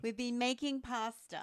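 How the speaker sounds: jokey, badly done Italian accent. Repeating the pasta line for partner, mock Italian accent. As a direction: have a light go at sounding Italian. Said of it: "It was supposed to be Italian".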